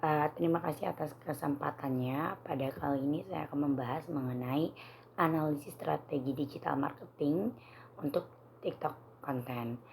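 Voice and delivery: slightly hoarse, scratchy throat. Real, not acted. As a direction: talk through a sore, hoarse throat. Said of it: "maaf, suara saya agak serak".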